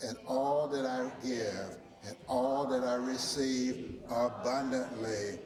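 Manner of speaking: slow, solemn affirmation read aloud; group recitation. Real, not acted. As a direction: lead the congregation through it, steady and slow. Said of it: "read the tithing slide with me".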